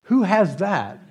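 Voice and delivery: high, disbelieving "who has that"; mock baffled question; incredulous thought. Pastor mocking the insurance ad, incredulous. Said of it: "And I thought".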